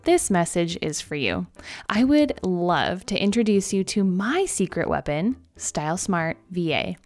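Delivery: upbeat sponsor ad read. Acted. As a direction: sell it like a podcast ad. Reads a sponsor ad.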